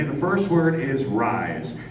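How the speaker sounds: slowly spells out the first word; slow demo word. Shown as a demonstration. Host teaching the crowd a word, slow. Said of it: "Are you ready?".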